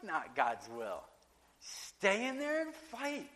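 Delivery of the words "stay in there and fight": high and slow, every word pressed; urgent exhortation. Real, not acted. Preacher urging the church to keep praying, slow urgent plea. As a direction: plead with them not to quit.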